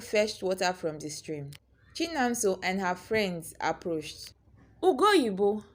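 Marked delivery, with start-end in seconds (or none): 4.8-5.6 lightly mocking sing-song name; mocking call. A narrator's reading. Chinamso calling out to Ugoyibo, mild mocking. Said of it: "Chinamso called mockingly".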